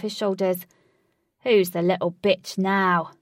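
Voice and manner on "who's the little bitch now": shouting. Acted. Fighter taunts after lifting foe.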